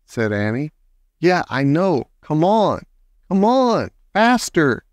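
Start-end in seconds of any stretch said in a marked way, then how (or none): 1.2-4.9 mounting urgency, rising in pitch; urgent order. A narrator's reading. Jack urges the leaking mini-sub upward, ordering. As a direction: urge it on, more insistent each time. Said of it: "Jack ordered the mini-sub".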